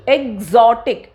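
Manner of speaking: "एक्सोटिक" drawn out, X sounded as g-z. Shown as a demonstration. Teacher showing the throat sound, slow GZ in "एक्सोटिक". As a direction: say "एक्सोटिक" slowly as eg-ZO-tic. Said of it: "पहले हमारे गले से क्या sound आ रही है".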